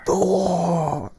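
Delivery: high loud wail; dramatic cry. Acted. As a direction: wail it out theatrically.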